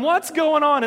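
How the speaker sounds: sharp shout of a parent bursting in; startled parent's loud call; parent yelling. Retold or imitated. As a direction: yell into the room to break up the fight. Parent bursting into kids' fight.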